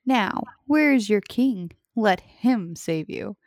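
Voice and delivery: loud, slow, ominous trailer boom; movie trailer voice. Acted. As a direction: challenge them like an epic trailer narrator. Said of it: "I wanted to try my movie trailer voice".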